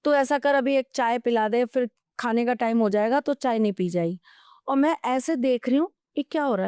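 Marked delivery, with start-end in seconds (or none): 0.0-4.2 imitating an unbothered husband answering his wife; mildly voiced easygoing father; relaxed, easygoing reply. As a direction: retell it casually, as if nothing happened. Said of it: "पापा बड़े आराम से जवाब दे रहे".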